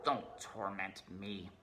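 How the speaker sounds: slow, soft, pained plea; mournful rat. Acted. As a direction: beg him to stop, slowly. Weeping rat replies.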